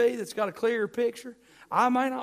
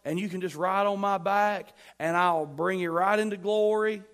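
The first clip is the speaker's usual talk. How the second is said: mock casual Paul. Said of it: "Paul's not saying".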